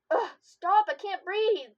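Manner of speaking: loud, high laughing protest; playful protest. Acted. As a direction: squeal it out between kisses. Being kissed over and over.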